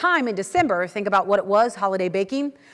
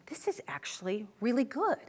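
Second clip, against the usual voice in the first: surprised delight; 11 dB quieter than usual. Retold or imitated. Waitress tastes the steak.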